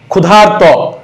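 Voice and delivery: ক্ষুধার্ত sounded out with a long "aar"; teacher stretching the R syllable in ক্ষুধার্ত; demonstrated R sound. Shown as a demonstration. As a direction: say ক্ষুধার্ত drawn out to expose the R. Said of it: "নিজে নিজে উচ্চারণ করেন".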